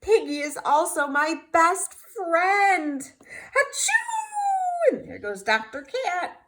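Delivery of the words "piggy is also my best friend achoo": a touch teary, then a high sneeze bursts out. Acted. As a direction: whimper it and get cut off by a sneeze. Gerald sad, then sneezes.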